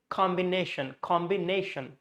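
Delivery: "combination" stressed on "com" and "na"; two-part stress. Shown as a demonstration. Teacher showing where two stresses fall, "com" and "na" marked in "combination". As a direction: mark both "combi" and "nation" in "combination". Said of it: "combi first and nation".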